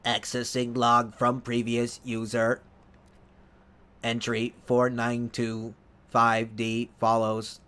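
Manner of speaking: slow, even robotic readout; computer voice. Shown as a demonstration. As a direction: read it like a machine log. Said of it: "I just stuck with the computer voice".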